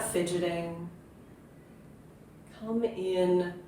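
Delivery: unhurried meditation guiding with long pauses; guided meditation. Acted. Yoga teacher settling listeners into their seat, guided meditation. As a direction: ease them gently into stillness, leaving space between phrases.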